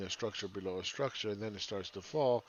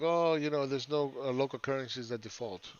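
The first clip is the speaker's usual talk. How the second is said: mocking MMT quote; 3 semitones higher than usual. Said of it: "M M T is like".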